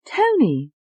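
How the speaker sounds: put-on high, sharp insistence in English accent. Tony correcting the doctor in an English accent.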